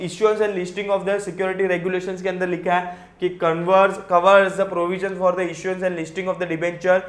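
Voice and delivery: slow, careful reading of legal text; reading out the rule. Acted. Teacher reading the regulation to students, slow and careful. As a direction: read each clause out slowly.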